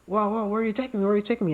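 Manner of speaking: hammed-up panic at being dragged off; mock alarmed senator. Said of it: "and he's like".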